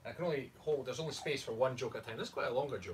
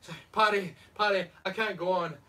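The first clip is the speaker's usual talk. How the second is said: higher, hammed-up drunken complaint; worn-out Murphy; 5 semitones higher, 4 dB louder than usual. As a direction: plead in a put-on character voice. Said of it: "Murphy's like".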